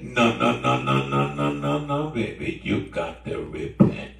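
low string of rapid no's, then a firm order; firm refusal. Acted. Preacher voicing a refusal to rebels, firm refusal.

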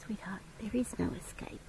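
soft whispered coaxing; hushed gentle whisper to a nervous pet. Real, not acted. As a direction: whisper it gently to calm her.

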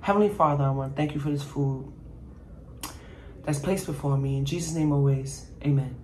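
soft, brief grace before eating; quick prayer. Real, not acted. Cook saying grace over her salad, softly. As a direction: bless the food quietly. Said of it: "Let's say a prayer".

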